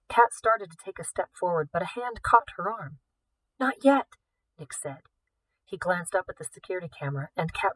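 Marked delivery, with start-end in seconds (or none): 3.6-4.2 quick firm hold-back, a touch higher; urgent warning. Acted. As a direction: stop her before she steps. Stops Kat from stepping.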